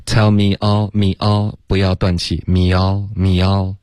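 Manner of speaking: "me all" run together on one breath; linked without breaks. Shown as a demonstration. Teacher shows student how to link, smooth unbroken breath. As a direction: keep the air flowing through "me all".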